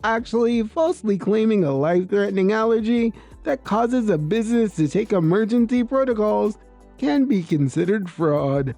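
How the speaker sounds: measured manager, understated; calm explanation. Acted. Manager explaining fraud to a customer, calm. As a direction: explain it evenly and formally. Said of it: "The manager calmly explained".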